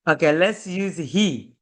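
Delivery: ordinary talk, nothing marked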